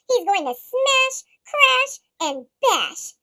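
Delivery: loud, slow gleeful build; excited cry. Acted. Gloom and Doom crying out gleefully about mayhem. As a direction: relish each word. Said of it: "cried Gloom and Doom".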